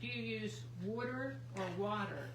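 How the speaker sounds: first water said standard, second water said as Philly wooder; water versus wooder. Shown as a demonstration. Asking the chat which water they use, standard versus wooder. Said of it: "We say, like, W O O D E R".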